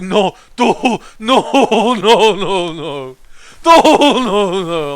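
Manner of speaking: high, loud, dim-witted refusal; dopey shy NPC voice. Pretend. Streamer voicing a shy game companion refusing to help, dopey high voice. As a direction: play a bashful simpleton saying no. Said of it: "He's like".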